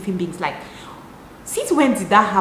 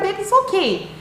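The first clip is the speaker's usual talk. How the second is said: put-on sweet girlfriend; 2 semitones higher, faster than usual. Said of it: "You can be like".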